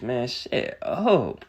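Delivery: slow, drawn-out shut up; slow fed-up dismissal; dismissive. Real, not acted. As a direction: drag it out with contempt. Dismissing Tank's Twitter complaints.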